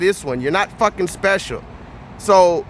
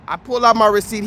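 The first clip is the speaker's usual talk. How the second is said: ordinary talk, nothing marked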